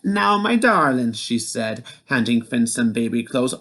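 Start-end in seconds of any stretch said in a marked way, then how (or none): 0.0-1.1 high, coaxing wife's voice; sweet and hurried to her husband; Oogna's voice. A narrator's reading. Wife urging husband in the cradle, high coaxing voice.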